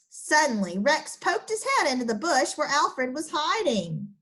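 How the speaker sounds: put-on storybook read-aloud for kids; story reading. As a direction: read it like a bedtime picture book for the class. Teacher reads a picture book aloud.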